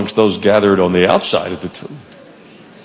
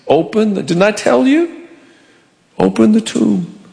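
higher, slow insistent command; higher, slower Jesus voice repeating the order; 8 semitones higher than usual. Retold or imitated. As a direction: press it home slowly.

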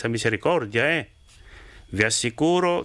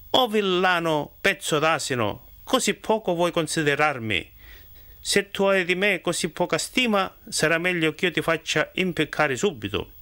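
a lord's offended scolding, slightly raised; indignant outburst; 4 semitones higher than usual. Acted. Lord Bernabò scolding the miller, mildly indignant. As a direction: bristle with wounded pride. Bernabò insulted, threatens hanging.

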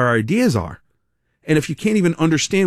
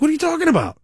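much higher, incredulous retold protest; baffled; 14 semitones higher, faster than usual. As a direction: toss it up in disbelief. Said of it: "I'm like".

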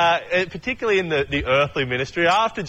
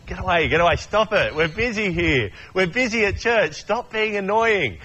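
mock-irritated adult shooing kids off, higher; grumpy shooing; 4 semitones higher than usual. Busy churchgoer shooing off children, mock-irritated. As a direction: pretend to be fed up, wave the kids away.

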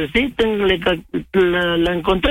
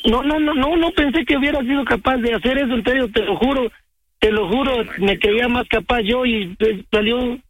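upset and insistent, on the verge of tears; tearful. Real, not acted. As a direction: plead in disbelief, close to crying. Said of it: "No llores, Omar".

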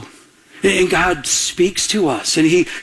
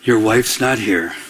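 much lower, slow, deliberate voice of God; God's deep voice; 9 semitones lower, slower than usual. Retold or imitated. God telling the single man his wife isn't there, low and slow. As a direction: drop low and slow, each word weighed. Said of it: "he said this very clearly to me".

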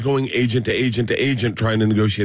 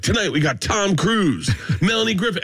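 host voice; 8 semitones higher than usual. Retold or imitated. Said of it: "he would be like".

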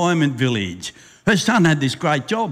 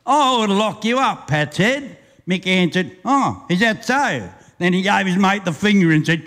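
rhythmic storyteller reading a ballad; bush poem recitation. Acted. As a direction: roll the verse out like a campfire yarn.

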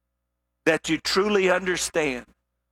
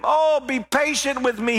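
begging; 7 semitones higher than usual. Acted. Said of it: "he begged".

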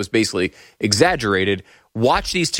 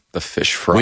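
mock Michigan accent; 6 semitones lower than usual. Echoing the mocked accent.

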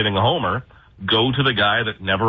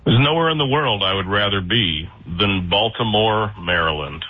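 sarcastic. Real, not acted. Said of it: "I detect some sarcasm".

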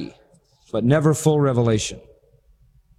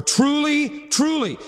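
raised truly; 10 semitones higher, slower than usual. Shown as a demonstration.

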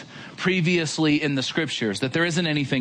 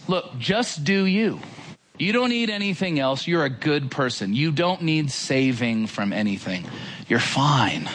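lightly voiced smooth talker telling them they're fine; understated coaxing deceiver; easygoing false teacher; 3 semitones lower than usual. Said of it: "He sounds a little like this".

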